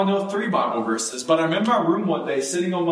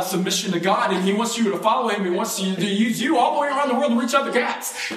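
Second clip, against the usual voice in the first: a higher, eager sermon to the cat; excited preaching to cat; 4 semitones higher than usual. Retold or imitated. Preaching joyfully to his cat.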